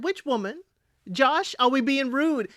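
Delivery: indignant retort. Retold or imitated. Vlogger challenges Josh calling her that woman, indignant. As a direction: call Josh out for rudeness. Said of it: "I said".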